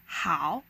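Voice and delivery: "Hao" pressed down, then bounced up; third tone. Shown as a demonstration. Teacher explaining the hard third tone, "Hao" dipping then rising. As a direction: dip your pitch on "Hao" and come back up. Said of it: "press your voice down a little bit".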